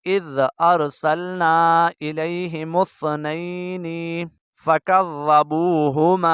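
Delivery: slow, drawn-out tilawat; measured Quran reading; Quran recitation. Shown as a demonstration. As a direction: recite it slowly and clearly for students. Reciting Surah Yasin.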